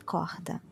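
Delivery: corda breathed, R as h; Rio R as h. Shown as a demonstration. Teacher repeats the Rio corda, h sound. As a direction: corda with a soft h. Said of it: "like the H at the beginning".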